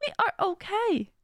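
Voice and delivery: calm yourself down like a friend; reassuring self-talk. Shown as a demonstration. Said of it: "I'll be like".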